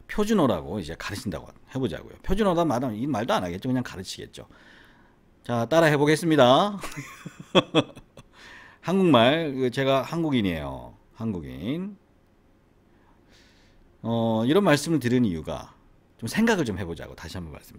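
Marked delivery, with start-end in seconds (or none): 5.4-12.0 put-on playful Gyeongsang-accented Korean teacher; 경상도 사투리 한국어 교사. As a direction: model words for pupils in a Gyeongsang lilt. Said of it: "경상도 한국인이라고 칩시다". (경상도 억양으로 한국어 가르치는 흉내)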